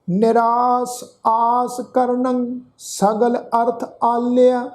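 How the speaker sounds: slow Gurbani verse with stretched vowels; measured, sustained sacred reading; scripture recitation. Shown as a demonstration. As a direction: recite line by line, slowly and steadily. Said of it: "ਫਿਰ ਤੋਂ ਆਪਾਂ ਪਾਠ ਉਚਾਰਨ ਕਰਦੇ ਹਾਂ".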